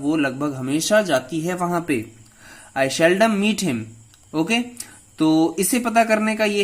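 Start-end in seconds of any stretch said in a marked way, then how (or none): 2.8-3.8 slow example read. Shown as a demonstration. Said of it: "teacher reads example sentence".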